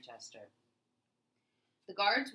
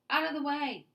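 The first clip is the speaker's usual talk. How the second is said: higher, louder barked command; overseer shouting; 10 semitones higher, 8 dB louder than usual. A narrator's reading. Overseer shouting the workers aside after the accident, loud barked order. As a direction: clear the path, harshly. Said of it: "the overseer shouted".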